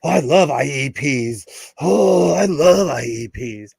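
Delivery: slow, sarcastic "I love I E Ps"; mock enthusiasm. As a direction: fake cheer for a boring meeting. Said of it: "and I'm like".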